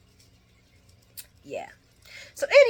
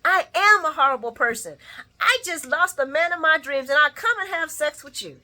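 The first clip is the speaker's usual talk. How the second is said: self-pitying wail; 8 semitones higher, 5 dB louder than usual. Retold or imitated. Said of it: "She said".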